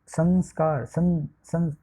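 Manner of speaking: "संस्कार" with the सं sounded through the nose; nasal anusvara. Shown as a demonstration. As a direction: demonstrate the nasal hum in "सं". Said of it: "नाकित से ध्वनि निकलेगी".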